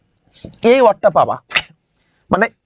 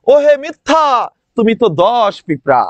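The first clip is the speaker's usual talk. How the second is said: mock poetic address. Shown as a demonstration. Teacher's playful rhyme for remembering lieutenant. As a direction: declaim it like a silly verse. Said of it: "একটু মজায় মজায় পড়তে হবে".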